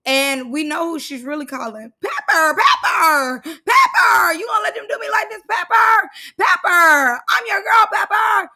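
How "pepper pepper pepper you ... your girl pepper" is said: high, loud, sobbing mock wail; mock crying plea. Scotty whining to Pepper during the fight, high crying wail. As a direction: wail for Pepper like a begging child. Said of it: "that's what she really wanna say".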